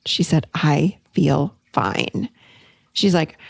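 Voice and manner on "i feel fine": low, very slow, untroubled; retold calm. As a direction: draw it out low and at ease. Friend retold as no longer upset.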